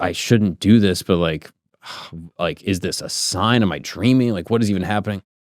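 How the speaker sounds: spiraling, panicked, frantic delivery. Retelling a man's words as he panics in bed at night: imitating a panicking man. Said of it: "he's starting to, like, panic".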